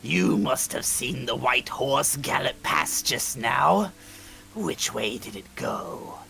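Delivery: villain voice. Acted. Voicing game villain.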